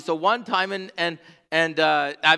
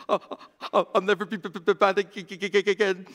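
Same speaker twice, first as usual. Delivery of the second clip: laughing mock sob stutter; 3 semitones higher than usual. Daughter apologizing to stuffies, laughing.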